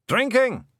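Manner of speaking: high proud clan yell; shout. Acted. The blue men shouting their boast to their chief. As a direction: bellow it out as a boast.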